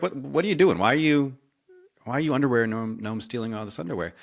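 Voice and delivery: put-on incredulous boys. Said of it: "the boys are like".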